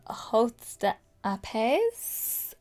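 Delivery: "Haute de Apes" sounded out very slowly, word by word; halting pronunciation attempt. Real, not acted. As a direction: stumble slowly through "Haute de Apes" as an unfamiliar French name. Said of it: "I can't do a French accent".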